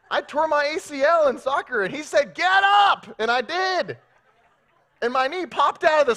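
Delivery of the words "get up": high, loud barked order; mock dad's shout. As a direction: imitate a tough dad yelling at his kid. Retold dad's order to injured son.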